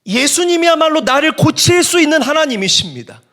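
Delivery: high, loud desperate call; crying out. Acted. Blind men calling to Jesus for healing, crying out. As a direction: cry out to be heard by Jesus. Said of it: "이 맹인들이 소리 질렀대요".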